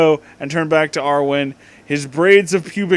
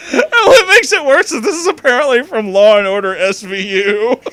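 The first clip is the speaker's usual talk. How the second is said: high, loud, laughing throughout; laughing disbelief; 8 semitones higher, 5 dB louder than usual. Real, not acted. Reacting to the SVU fanfic, high laughing disbelief.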